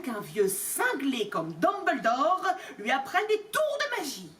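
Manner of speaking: a mild furious rant rising at the end; blustering anger, understated; furious Vernon. Acted. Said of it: "L'oncle Vernon était furieux". (oncle Vernon furieux, colère contenue)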